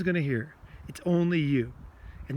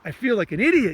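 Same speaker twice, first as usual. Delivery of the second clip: raw angry venting; 2 semitones higher, 6 dB louder than usual. Shown as a demonstration. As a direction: let it all out, swearing. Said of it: "You can talk like that to yourself".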